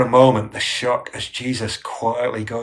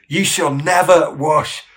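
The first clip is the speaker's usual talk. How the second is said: raised, louder, indignant protest; powerful rebuke; 4 semitones higher, 6 dB louder than usual. Acted. Peter refuses to let Jesus wash him, powerful rebuke. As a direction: rebuke forcefully, pitch up, stressing "never". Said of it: "That is quite a powerful rebuke".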